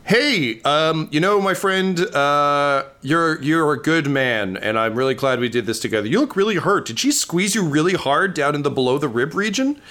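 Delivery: a fond forest creature thanking a friend; Sylvan friend. Acted. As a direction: GM voices a high, earnest NPC friend. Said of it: "He says in Sylvan back to you".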